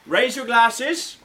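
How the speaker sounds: slow, loud toast to the room; raising a toast. Acted.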